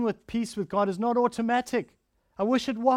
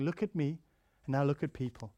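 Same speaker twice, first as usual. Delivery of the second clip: softer and lower, a gentle God; small still voice; 4 semitones lower, 5 dB quieter than usual. Acted. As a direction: speak it like a quiet still voice. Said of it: "a quiet voice".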